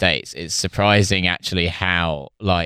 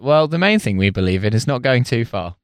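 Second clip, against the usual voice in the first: prim society spokesman. Retold or imitated. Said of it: "to be like".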